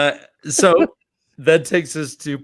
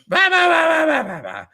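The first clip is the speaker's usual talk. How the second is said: mock yelling; 12 semitones higher than usual. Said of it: "They start yelling".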